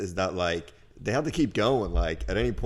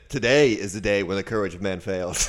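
mock Aragorn speech. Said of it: "They said".

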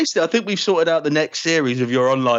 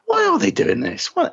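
baffled viewer; 13 semitones higher than usual. Retold or imitated. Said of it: "you sort of go".

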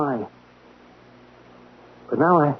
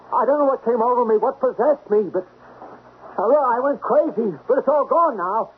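pleading apology; 9 semitones higher than usual. Acted. Apologising to woman who fled.

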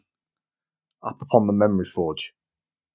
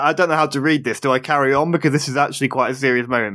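flustered rush; 2 semitones higher, much faster than usual. Retold or imitated. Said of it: "I was like".

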